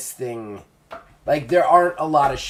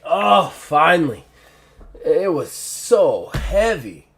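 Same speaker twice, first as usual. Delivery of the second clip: fat Ned voiced; 5 semitones higher, 7 dB louder, slower than usual. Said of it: "the fat one is like".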